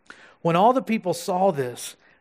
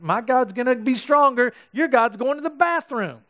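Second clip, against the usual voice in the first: higher, smug schoolyard jeer; taunting; 5 semitones higher than usual. Retold or imitated. Elijah mocking Baal's prophets, smug taunt. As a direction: gloat over the rival god. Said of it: "he's taunting them like".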